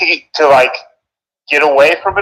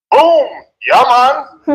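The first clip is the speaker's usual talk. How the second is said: Vincy accent attempt; 8 semitones higher, much slower than usual. Shown as a demonstration. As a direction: shout it like a Vincy local. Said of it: "Beckway, right?".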